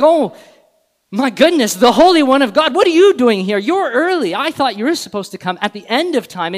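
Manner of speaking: high, loud, flustered demon voice easing down; hammed-up surprised demon. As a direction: act out a startled demon rattling off its alarm. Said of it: "he's surprised".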